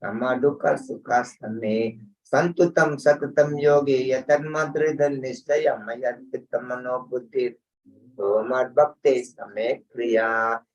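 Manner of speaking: steady, level Sanskrit chant; verse recitation. Real, not acted. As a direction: recite the sacred verse in an even, measured intonation.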